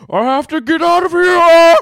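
put-on high, loud accented scream; Asian accent. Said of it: "moaning and screaming".

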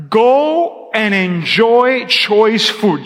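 slow, deliberate verse reading; unhurried pulpit reading; scripture reading. Acted. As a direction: read it out slowly to the congregation. Reads scripture slowly.

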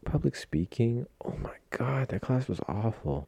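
shudder at the memory and hush it; dread. Real, not acted.

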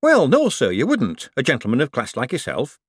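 put-on a put-upon old foreman listing his woes; Shady the foreman. Shady to Moist.

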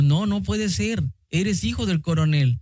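mildly alarmed disbelief, voice lifted at first; understated fright in a quoted reply; retold alarm. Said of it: "ella espantada dijo".

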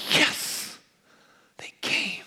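hushed, airy word from the Lord; gently breathed reassurance; the Lord speaking. Retold or imitated. Preacher relaying God's word to the congregation, hushed and tender. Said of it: "the Lord just said to me, he said".

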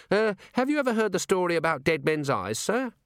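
an earnest junior officer reporting; eager young dwarf. A narrator's reading. Littlebottom asks nervously.

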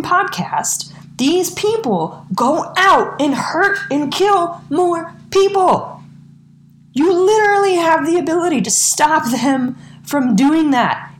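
furious podcast tirade at politicians; angry rant. Real, not acted. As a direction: tear into the politicians, voice climbing. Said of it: "I'm done ranting".

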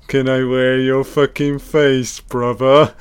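leer at the victim like a deranged killer; creepy killer voice. Pretend. Mocking the movie killer as he taunts the brother, in a leering killer voice.

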